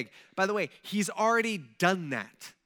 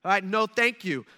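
loud, firm mock decree; royal command; 2 semitones higher, 6 dB louder than usual. King halting the city's rebuilding, loud and commanding. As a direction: lay down the order loudly. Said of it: "he issues a command saying".

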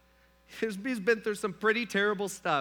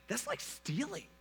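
mock outrage; 3 semitones higher, 5 dB louder than usual. To the bank teller over two dollars, mock outraged and louder. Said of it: "I'm kinda, like, joking around".

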